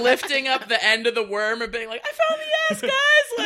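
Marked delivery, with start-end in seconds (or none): 2.1-3.5 high, loud triumphant yell; triumphant shout. Retold or imitated. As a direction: crow it like a proud discovery. Repeating Bacon's triumphant shout.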